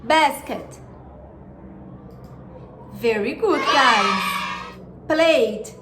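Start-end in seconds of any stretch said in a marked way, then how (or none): 0.0-0.8 language lesson narrator. Shown as a demonstration. 5.1-5.7 language lesson narrator. Shown as a demonstration. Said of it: "Now listen and repeat".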